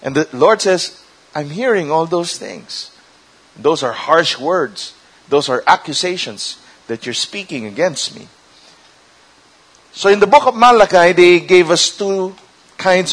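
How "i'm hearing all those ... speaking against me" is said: grave, quiet reply. Acted. God answers the accusations.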